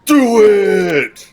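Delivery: sudden loud urging shout. Acted. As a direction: yell it to egg him on. Urging a gamble at the table.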